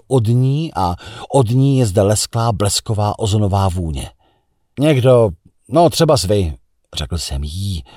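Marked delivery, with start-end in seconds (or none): 4.8-6.6 out of breath. A narrator's reading. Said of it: "popadaje dech za běhu".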